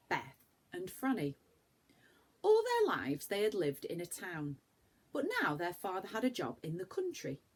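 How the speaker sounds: put-on reading aloud to children; lively storybook reading for a class; gentle storyteller voice for little ones; story narration. A narrator's reading.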